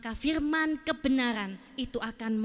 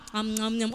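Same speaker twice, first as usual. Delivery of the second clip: mimed munching; 3 semitones lower than usual. Acted. Imitates eating the Bible.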